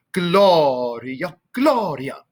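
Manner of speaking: stretched GLO-ria, then a shorter GLO-ria; first-syllable stress. Shown as a demonstration. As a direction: demonstrate Gloria with weight on each GLO. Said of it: "emphasis on the first syllable".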